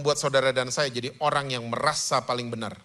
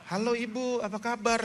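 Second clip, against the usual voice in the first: cheery greeting; 7 semitones higher, 4 dB quieter than usual. Retold or imitated. Churchgoers mistake man for wife.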